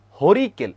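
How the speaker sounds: হরিকেল high and loud, falling at the end; emphatic drill word. Shown as a demonstration. Teacher answering their own question, emphatic drill. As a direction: punch out হরিকেল for the class. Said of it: "উচ্চারণ করে ফেলো আমার সাথে".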